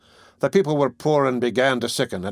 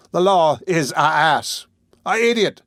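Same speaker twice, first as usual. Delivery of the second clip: louder, higher, slow indignant bluster; indignant outburst; 6 semitones higher, 4 dB louder than usual. Acted. Bumble protesting to Mr Brownlow, loud indignant bluster. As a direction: blurt it out in outrage. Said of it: "Laying great stress".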